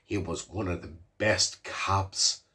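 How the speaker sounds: slow, low, deliberate mock old-timer voice; drawn out like a wise old man in a film; imitating the old man. Retelling the film to the viewer, doing the old man slowly. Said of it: "I don't know why he talks like that".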